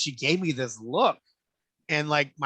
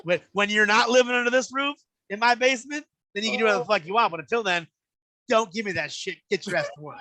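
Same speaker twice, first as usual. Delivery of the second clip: higher, firm scolding mom; stern mom lecture; 5 semitones higher than usual. Retold or imitated. Mom scolding son about his basement, firm lecture. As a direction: lay down the house rules.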